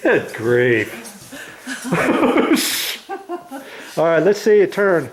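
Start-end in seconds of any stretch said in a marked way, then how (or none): 1.3-3.9 light amused laugh. Real, not acted. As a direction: chuckle at the surprise. Laughing at his wife.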